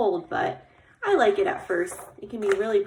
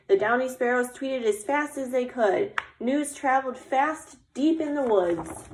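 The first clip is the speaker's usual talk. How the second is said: story refrain; 3 semitones higher than usual. A narrator's reading. Sparrows spreading news through the woods, lilting storytelling. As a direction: read it like a recurring picture-book refrain. Reads picture book aloud.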